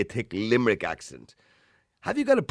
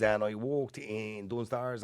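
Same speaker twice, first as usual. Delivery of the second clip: put-on thick Dublin accent; 5 dB quieter, much slower than usual. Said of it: "candidate two comes up".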